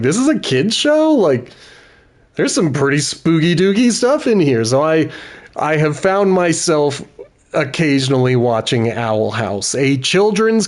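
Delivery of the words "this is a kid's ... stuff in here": put-on higher, disbelieving kid's-show quote; incredulous disbelief. Viewer reacting to a spooky kid's show, incredulous. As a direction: act stunned that a cartoon is this dark. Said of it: "where you're like".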